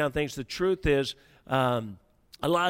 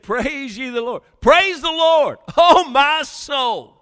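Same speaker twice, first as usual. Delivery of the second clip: much higher and louder, laughing through it; excited praise; 9 semitones higher, 10 dB louder, slower than usual. Shown as a demonstration. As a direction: burst out with joyful praise. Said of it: "and he's excited".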